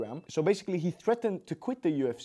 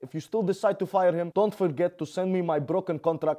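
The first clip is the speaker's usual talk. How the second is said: mock Russian-accented fighter voice, getting louder; Khabib impression; 3 dB louder than usual. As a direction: play the angry Dagestani champ, building to a shout. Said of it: "Khabib responded and said".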